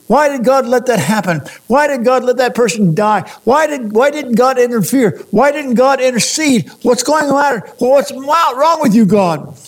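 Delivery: imitating exasperated questions. Grieving people questioning God in mock exasperation. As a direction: voice the grieving person demanding answers. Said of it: "How many times have I heard people say".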